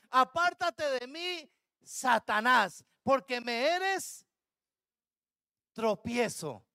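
slow, weighty rebuke as Jesus; Jesus rebuking Peter, slow and stern. Acted. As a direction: spell out each word of the rebuke slowly.

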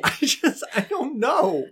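high, tearful stammer; acted welling-up; starting to cry. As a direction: break up as the tears begin. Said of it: "I think he's starting to cry".

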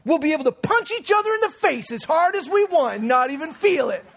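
put-on a child thrilled by the idea; excited kid. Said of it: "He goes".

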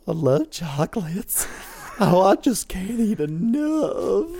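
chainsaw killer voice. Retold or imitated. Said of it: "Texas Chainsaw Massacre".

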